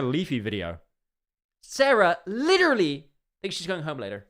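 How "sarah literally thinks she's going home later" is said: higher, louder mocking exclamation; mocking repeat. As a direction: say it again like it's ridiculous. Streamer rereads it, mocking.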